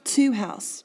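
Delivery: "Two house" as one metrical foot, cut off after "house"; teacher sounding out "Two house"; syllable-pair scansion. Shown as a demonstration. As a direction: mark out both beats of "Two house". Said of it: "we've got two syllables there".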